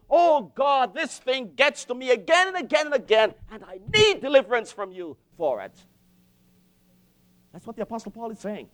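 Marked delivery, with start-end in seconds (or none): 0.1-5.7 earnest plea to God; imploring, emphatic prayer; pleading prayer. Acted. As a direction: plead for help, with a touch of urgency. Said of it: "I plead with him".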